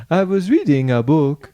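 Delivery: tentative Yoruba lilt; attempted Yoruba accent. Shown as a demonstration. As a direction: try a melodic Yoruba accent. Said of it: "trying to do the Yoruba accent".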